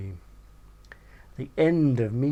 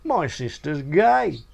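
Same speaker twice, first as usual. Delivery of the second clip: much higher, hammed-up caricature of a big greedy woman; slow curse, then a fast, much higher squeal; Godzilla's voice; 10 semitones higher, 6 dB louder, slower than usual. Big woman hearing money mentioned, hammed-up high voice. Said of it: "Godzilla interrupted by saying".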